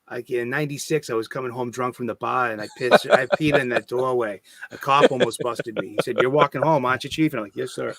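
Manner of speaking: mock local guide with a Boston accent; Boston tour guide. Local showing visitors the Freedom Trail, mock Boston guide. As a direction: show them round in thick Bostonian. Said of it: "Bostonian accent was so thick".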